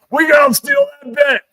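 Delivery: very high cartoonish plotting; whisper-plot like cartoon thieves; squeaky scheming voice. Two men plot on the phone to steal a bit. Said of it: "say to each other".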